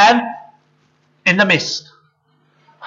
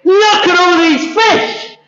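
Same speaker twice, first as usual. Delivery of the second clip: high, drawn-out marvelling; amazed; 10 semitones higher, slower than usual. Acted. Fishermen marvel at the huge catch, amazed. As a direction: stretch it out in excited wonder.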